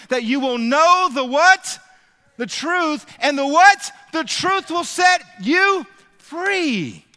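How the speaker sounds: rising from loud question to a slow shouted climax on set you free; building preacher shout. Real, not acted.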